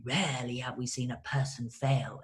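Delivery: deep, booming Shakespearean English orator; Shakespearean English accent. Retold or imitated. Sponsor at the podium reciting, deep Shakespearean English declaiming. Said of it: "he spoke with this accent".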